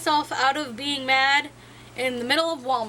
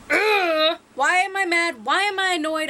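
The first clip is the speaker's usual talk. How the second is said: mildly exasperated, pitched up; annoyed self-talk; 4 semitones higher, 4 dB louder than usual. Acted. Talking oneself through being mad at a trigger, mildly exasperated. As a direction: vent at yourself with an irritated groan first. Acts out venting to herself.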